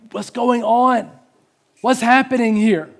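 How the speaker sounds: high, drawn-out bewildered plea; crying out in anguish. Retold or imitated. Elijah cries out to the Lord over the boy, anguished. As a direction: plead upward to God, stretching the words. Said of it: "He cries out in anguish".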